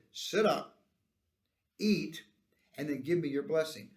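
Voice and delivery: firm, separated imperatives; brisk instructions with pauses between them; polite command. Acted. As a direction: tell him exactly what to do. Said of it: "they were given as a command".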